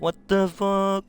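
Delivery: incredulous retold outburst; outraged disbelief. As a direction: stretch it out, baffled. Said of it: "And then Pig's like".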